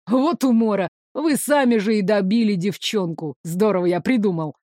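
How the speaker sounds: ниже, хвастливо и насмешливо; упиваться своей хитростью; самодовольный злодей. Acted. (злодей хвастается ловушкой)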